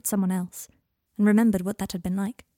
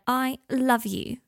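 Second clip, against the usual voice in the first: higher, slow, drawn-out declaration; gushing affection; 5 semitones higher, much slower than usual. Acted. Girl thanking her guardian for new shoes, gushing. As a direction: stretch each word out fondly.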